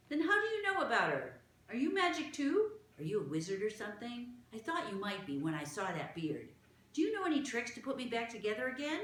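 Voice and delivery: high, quick string of questions; eager Martha. Acted. Martha quizzes the small gentleman, eager and fast. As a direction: rattle the questions off like an eager child.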